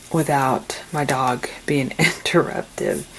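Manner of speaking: whispered with a little laugh. Real, not acted. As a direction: giggle it under your breath. Everyone asleep, late night filming.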